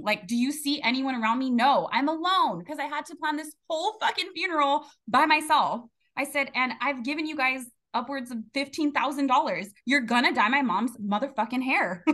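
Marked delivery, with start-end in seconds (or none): 0.0-5.8 retold outburst, pitch climbing; indignant and worked up, voice rising; losing it. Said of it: "the first time I lost it". 6.6-12.0 retold angry ultimatum; a touch of indignant anger in the retelling; pissed off.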